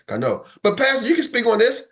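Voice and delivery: usual speaking voice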